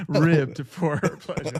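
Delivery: slow, sultry ad-read parody; mock ad voice. Cohost riffing on a condom sponsor, slow mock ad purr. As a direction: purr it like a cheesy commercial.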